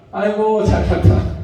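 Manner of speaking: breathy sarcastic jab; mocking a show-off with a sarcastic aside. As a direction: needle someone who's showing off. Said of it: "빈정상에서 하는 얘기잖아요".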